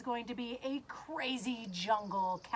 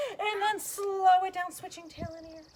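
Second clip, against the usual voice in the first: slowing right down; 6 semitones higher, 7 dB louder than usual. Pretend. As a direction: drag the words out playfully. Voice mimics slowing hops.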